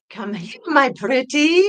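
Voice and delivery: high, cackling witch screech; Wicked Witch voice. Pretend. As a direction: play the witch, menacing and shrill. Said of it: "you sounded like the Wicked Witch of the West".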